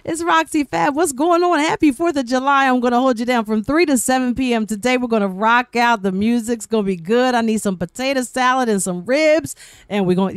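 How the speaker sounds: high, bright on-air radio host voice; radio DJ intro. Retold or imitated. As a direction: hype up the listeners like a DJ. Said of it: "and I was like".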